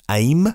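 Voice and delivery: "aim" as one syllable, like the English word; one-syllable pronunciation. Shown as a demonstration. Host wonders how to pronounce the car's name, one-syllable pronunciation. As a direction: say "aim" as a single word, trying it out. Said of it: "Do I pronounce it".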